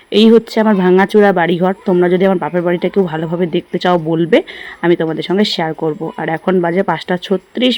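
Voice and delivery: talking while brushing teeth; words round a toothbrush. Real, not acted. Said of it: "দিয়ে brush করছি".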